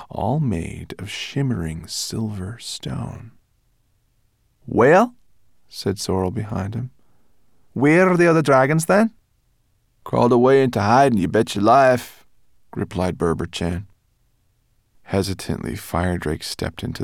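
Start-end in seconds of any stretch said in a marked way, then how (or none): 4.6-5.1 high, loud, outraged scolding; indignant brownie girl. Acted. Brownie girl scolding the dragon over his fighting plan. Sorrel asks. 7.7-9.1 high, loud, outraged scolding; indignant brownie girl. Acted. Brownie girl scolding the dragon over his fighting plan. Sorrel asks. 10.0-12.2 high, loud, proud creature voice; Berber Chan's voice. Acted. Guide showing off the moonstone walls, high and proud.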